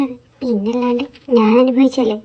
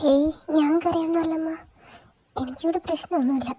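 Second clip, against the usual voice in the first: choked voice; 3 semitones higher, 6 dB quieter than usual. Acted. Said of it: "അമ്മയുടെ സൗണ്ടാണല്ലോ ഇടറിയിരിക്കുന്നേ".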